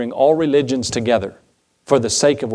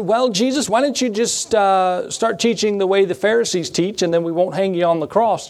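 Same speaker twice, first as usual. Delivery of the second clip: much higher, needling voice; lightly voiced scoffers pleading with Jesus; mocking Pharisees; 6 semitones higher than usual. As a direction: pitch it up like a sneering questioner. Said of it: "And when they said".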